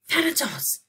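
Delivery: high, loud gasp of alarm. Acted. Aphrodite to Elliot, gasping in alarm. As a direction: gasp in shock. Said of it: "gasped Aphrodite".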